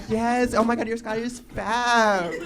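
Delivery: mock-sweet gushing, drawn out at the end; sugary register small talk. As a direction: compliment the scarf like a fan. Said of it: "I'm always at the register like".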